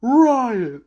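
high, loud shouted hey riot; mock rally shout. Chit Sang hoisting a prisoner, shouting to start the riot. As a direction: yell it like starting a brawl.

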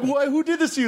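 very high, hammed-up dismay; stagey, high-pitched aghast question; mock outrage. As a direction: act appalled on the dummy's behalf. Acting out shocked puppet bit.

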